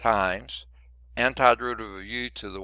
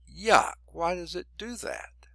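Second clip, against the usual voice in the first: annoyed little whisper under the breath; whispered aside; 8 semitones higher than usual. Real, not acted. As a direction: mutter it to yourself in a whisper. Pen misbehaving, muttered aside.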